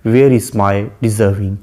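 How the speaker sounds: each word drawn out slowly; slow poem recitation. Shown as a demonstration. Teacher quotes the poet addressing the fair youth, slowly. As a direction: quote the verse slowly and solemnly. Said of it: "poet कहता है".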